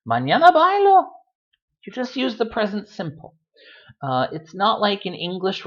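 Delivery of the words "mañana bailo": model sentence. Shown as a demonstration. Model sentence for future plans.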